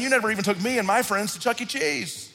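high whiny complaining son; older brother whining to his father, high and petulant; whiny kid. Retold or imitated. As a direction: whine like a jealous child.

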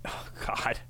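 unvoiced whisper. Real, not acted. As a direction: breathe it out in disbelief. Shocked by the description.

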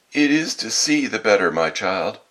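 high, loud mock-granny voice; wolf posing as grandmother. A narrator's reading. Wolf explaining its eyes to the girl, fake granny voice. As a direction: answer loudly in a false granny pitch.

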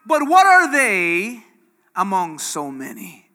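slow, doubtful disciples' question; disciples doubting. Retold or imitated. Disciples doubting the boy's lunch, slow and doubtful. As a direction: scoff at the tiny lunch, slowly. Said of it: "This is what the disciples said".

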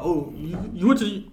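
high, loud, quick teasing probe; spring the trap with fake curiosity; gleeful mock interrogation; mock gotcha question. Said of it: "go back and be like".

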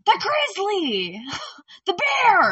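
high, loud, slow shout with a laugh; yelled warning. Retold or imitated. The lady on the cliff warning the fishermen, high loud slow shout. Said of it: "she's like".

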